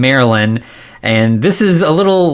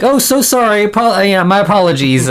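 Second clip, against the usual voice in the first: mock apology; 8 semitones higher than usual. Peeper's fake apology acted out.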